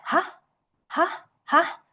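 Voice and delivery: HAH lifted high like a puzzled question; confused question tone. Shown as a demonstration. Teacher mimicking a confused person, HAH asked high and rising. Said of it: "kayak orang bingung".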